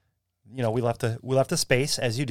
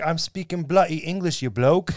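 mildly indignant Englishman, slightly raised pitch; mock yelling Englishman; 4 semitones higher than usual. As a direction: imitate an exasperated English drunk, without a real shout. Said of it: "like, yelling at him".

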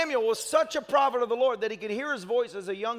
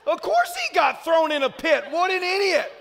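exasperated shout; 4 semitones higher, 4 dB louder than usual. Retold or imitated. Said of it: "have you ever read that and thought".

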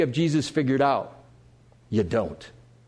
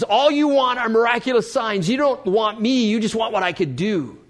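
mildly raised, higher scolding voice; rebuke; 6 semitones higher than usual. Acted. Jesus speaking to all of the Galileans, mild rebuke. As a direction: reproach a crowd, easing off at the end. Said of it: "to really rebuke all of the Galileans".

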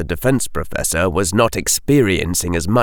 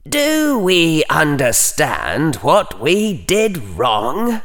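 high, slow, cold inner voice; coldly; 7 semitones higher, slower than usual. A narrator's reading. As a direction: ask it like a chilly judge. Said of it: "said coldly".

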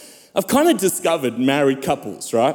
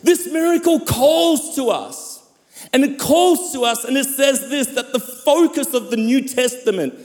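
impassioned preaching. Real, not acted. Preacher tells the church of God's love, impassioned preaching. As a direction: proclaim it, then let the line fall away.

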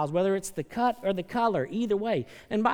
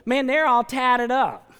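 disdainful aside; 5 semitones higher, 6 dB louder, slower than usual. Retold or imitated. Mock churchgoer judging tattooed people.

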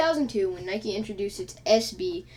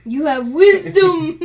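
slow, loud, higher sage voice; wise sage voice; 7 semitones higher, 12 dB louder, slower than usual. Acted. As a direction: intone it like a wise master. Mock wise pronouncement.

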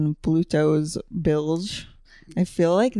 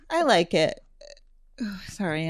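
talking through a yawn. Real, not acted. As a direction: yawn while you speak. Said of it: "I'm yawning in the middle".

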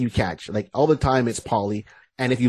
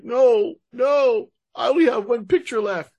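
heroine's lament; 11 semitones higher than usual. Retold or imitated. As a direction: whine it as the distraught heroine. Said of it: "And she's like".

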